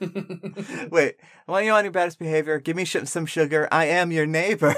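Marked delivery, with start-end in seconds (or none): 0.0-2.6 fast. Pretend. Quick redo of the line.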